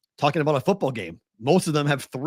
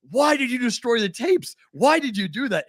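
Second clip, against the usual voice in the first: high-pitched mock outcry; freaking-out media; 10 semitones higher than usual. Reporters demanding answers from the commissioner, mock freaking out. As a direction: imitate a frantic reporter, pitch way up. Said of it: "when the media is freaking out".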